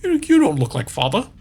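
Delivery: a touch high, doubtful; hesitant and a little high; puzzled son. Pretend. A son doubts a stranger, lightly high and puzzled. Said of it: "Why am I talking like this?".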